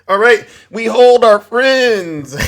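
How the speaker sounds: slow words breaking into laughter; can't hold back the laugh; real giggle through a slow line. Real, not acted. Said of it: "I gotta try to keep a straight face".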